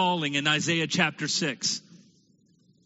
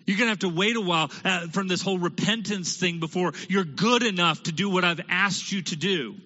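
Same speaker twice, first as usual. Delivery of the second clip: mock impatient God. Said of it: "what Isaiah wasn't told by God".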